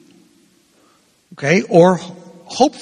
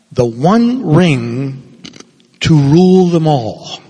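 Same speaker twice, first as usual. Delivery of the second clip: dramatic quote; slower than usual. Acted. Quoting Tolkien dramatically.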